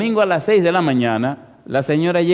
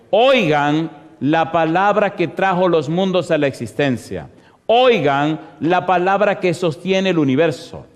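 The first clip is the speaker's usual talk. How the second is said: preaching proclamation; 2 semitones higher than usual. Acted. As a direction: hammer out each call to the congregation. Preaches a repeated call.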